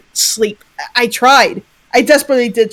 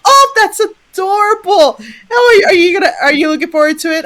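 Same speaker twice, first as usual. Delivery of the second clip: lightly voiced kind woman; 8 semitones higher than usual. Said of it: "She's like".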